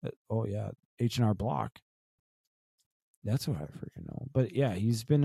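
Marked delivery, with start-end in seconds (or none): 1.0-1.8 sing-song H and R Block like the ad; ad jingle voice. Retold or imitated. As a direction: mimic the commercial tagline. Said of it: "Knock at the Door, Money".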